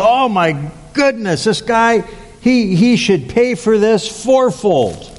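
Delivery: high, indignant mock outburst; retold outrage. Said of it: "He gets angry".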